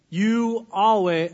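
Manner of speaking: drawn-out accusing "You always"; slow, blaming "You always". Shown as a demonstration. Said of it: "I'm just kidding, don't do this".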